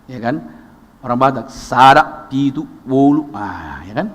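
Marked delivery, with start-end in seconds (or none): 1.0-3.3 slow, drawn-out mock count. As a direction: count lazily, slowly. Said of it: "Masih pelan". (menghitung lambat, ditiru)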